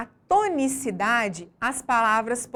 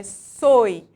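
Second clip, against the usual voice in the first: "soi" said alone, loud and firm; stressed syllable; 9 dB louder than usual. Shown as a demonstration. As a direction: punch out "soi" as the strong syllable. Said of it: "a sílaba mais forte".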